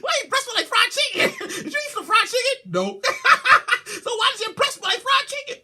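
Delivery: high, giggling teasing question; mock incredulous giggle; laughing mockery. Real, not acted. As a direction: tease through laughter.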